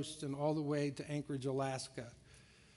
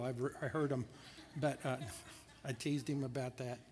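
laughing; 2 semitones lower, 5 dB quieter than usual. Real, not acted. Joking about his lost sermons.

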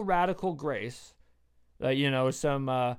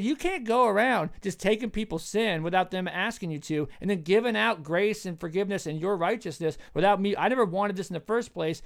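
higher-pitched mock complaint; indignant protest; 4 semitones higher than usual. Servant objecting to grace given unasked, indignant. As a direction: argue back, affronted on someone's behalf.

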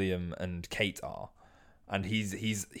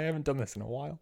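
laughing admission; 4 semitones higher, 7 dB quieter, much faster than usual. Retold or imitated. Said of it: "He's like".

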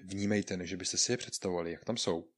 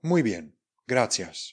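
"Muy bien", short breath, then "gracias"; "Muy bien" and "gracias" as two separate falling phrases; pause at the comma; 2 semitones higher, 7 dB louder, slower than usual. Shown as a demonstration. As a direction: leave a little gap between "bien" and "gracias". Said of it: "pouze ústně, dáme tam chviličku".

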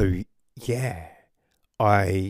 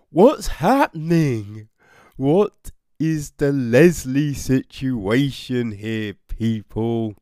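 exasperated outburst; 2 semitones higher, 5 dB louder than usual. Real, not acted. Reviewer baffled by the plot, exasperated loud questioning. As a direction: throw the question at the audience in disbelief.

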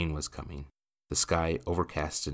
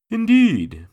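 loud, high "Indeed"; raised, carrying interruption; emphatic interjection; 13 dB louder than usual. A narrator's reading. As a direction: cut in firmly over an argument. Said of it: "Mister Adelson injected".

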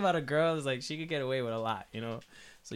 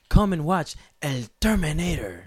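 put-on slow, louder Spanish-accented invite; 3 semitones higher, 7 dB louder, slower than usual. Puerto Rican theater promo, Spanish accent. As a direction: pitch the movie in a thick Spanish accent. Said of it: "they're like".

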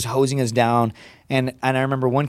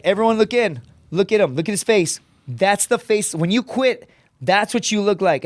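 higher, emphatic mock address to recruits; imitated shaming instructor; 6 semitones higher than usual. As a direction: lightly play an instructor making an example.

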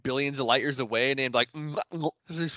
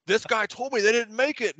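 mocking quote; 8 semitones higher than usual. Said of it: "He's like, he's like".

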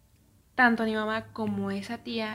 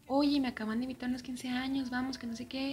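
retold eager invitation; 4 semitones higher than usual. Cousin inviting her to a party.

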